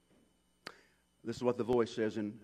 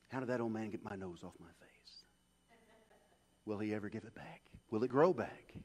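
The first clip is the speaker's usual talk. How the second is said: hushed wonder; 3 semitones lower, 5 dB quieter than usual. Retold or imitated. Child's wonder, told softly.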